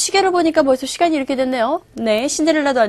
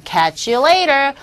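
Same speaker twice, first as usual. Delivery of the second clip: slow key phrase; 2 semitones higher, much slower than usual. Shown as a demonstration. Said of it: "오늘의 key expression".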